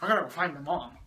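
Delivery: mild mock whining; whiny. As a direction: lightly imitate a sulky grumbler. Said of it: "Anakin's just whiny".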